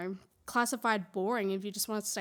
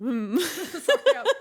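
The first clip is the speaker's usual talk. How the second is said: laughing through a cough; 5 semitones higher, 9 dB louder, much slower than usual. Real, not acted. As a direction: talk while holding back a cough. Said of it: "I've got a cough right now".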